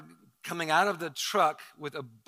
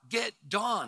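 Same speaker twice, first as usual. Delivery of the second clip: strained, higher mock gasp; retold gasp; 6 semitones higher than usual. Choking man gasps for his wife, mock gasp. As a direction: imitate gasping out an urgent plea. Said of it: "he gasps out".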